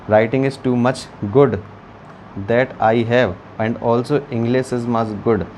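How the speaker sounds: slow, joking broken English boast; teacher teasing his own English, mock-proud. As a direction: brag in deliberately bad English, drawn out. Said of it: "ठीक है, English भी मेरी बहुत अच्छी है".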